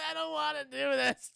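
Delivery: high-pitched captive whine; hammed-up pleading; mock frightened protest. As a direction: protest in an overdone panicky voice. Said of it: "She's like".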